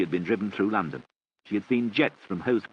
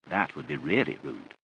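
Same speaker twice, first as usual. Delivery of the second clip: serious; 4 semitones lower, 3 dB quieter than usual. Acted. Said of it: "said his mother seriously".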